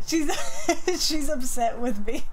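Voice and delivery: talking through real laughter; laughing. Real, not acted. Streamer tells viewers her pet is upset, laughing. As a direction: let the giggles break up the words.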